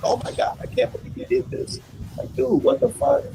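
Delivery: high-pitched mock disbelief; mock surprise. Boxing host mimicking fight fans' complaints, mock surprised. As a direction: imitate shocked fans in a squeaky high voice. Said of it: "Everybody acting all surprised".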